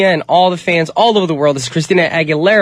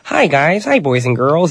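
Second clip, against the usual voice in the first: put-on kids' TV host. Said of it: "I feel like the nice, nerdy".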